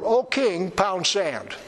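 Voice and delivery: a mild mock brush-off to a king; understated rude retort; rude dismissal. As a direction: toss it off, lightly blunt. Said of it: "That's Bible speak for".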